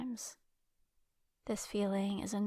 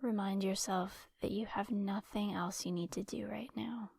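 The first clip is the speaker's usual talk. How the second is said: calm guided-imagery voice with long pauses between phrases; guided relaxation. Acted. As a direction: lead a listener into rest, leaving space to breathe. Leads guided relaxation exercise.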